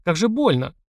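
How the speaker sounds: lightly voiced high girlish yell of pain; Arli's high voice. A narrator's reading. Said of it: "очень похожим голосом Арли". (высокий голос Арли, крик боли)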